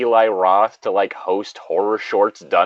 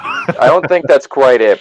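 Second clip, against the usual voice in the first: lingering horror host voice; 3 semitones higher, 6 dB louder, slower than usual. Acted. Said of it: "closest you're gonna get".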